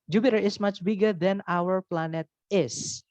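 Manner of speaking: each English word laid out slowly; slow teacher demo; slow careful model sentence. Shown as a demonstration. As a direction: read it slowly for the class. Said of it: "Itu juga boleh".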